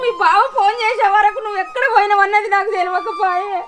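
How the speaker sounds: tearful complaint; sobbing reproach; crying reproach. Acted. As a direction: reproach him through tears. Mother cries reproach.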